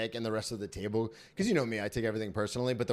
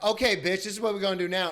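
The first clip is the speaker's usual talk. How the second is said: higher, fast sassy snap; sassy queen; 7 semitones higher, 5 dB louder, faster than usual. Retold or imitated. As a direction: give it full diva attitude. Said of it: "his queen would come out".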